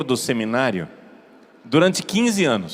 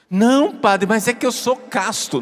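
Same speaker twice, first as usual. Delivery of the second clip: indignant protest; 5 semitones higher than usual. Retold or imitated. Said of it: "o menino ficou revoltado comigo".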